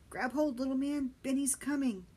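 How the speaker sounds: put-on Benny calling to the boy to grab hold. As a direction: shout encouragement from afar.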